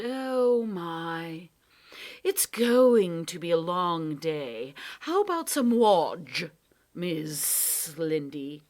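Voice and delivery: slow, cajoling cat voice; wheedling cat. Acted. Cat offers Lindy wodge, wheedling. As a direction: try to make friends again.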